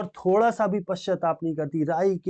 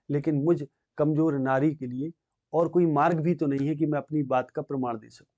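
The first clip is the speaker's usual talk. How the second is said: normal talking voice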